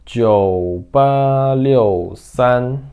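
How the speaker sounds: very slow, stretched digits; drawn-out teaching pronunciation; demonstrated number reading. Shown as a demonstration. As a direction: read out each digit long and deliberately. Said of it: "eu falaria assim".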